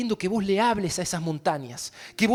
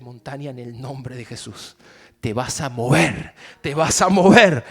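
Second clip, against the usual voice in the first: commanding the mountain; 7 semitones lower, 7 dB louder than usual. Pretend. Pastor acting a believer commanding the mountain, building shout. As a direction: order the mountain to move.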